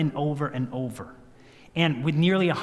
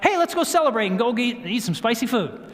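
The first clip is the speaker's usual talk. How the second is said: higher-pitched mock excitement; eager suggestion; 5 semitones higher than usual. Couple imagining going out to celebrate, mock eagerness. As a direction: pitch it up like a keen invitation.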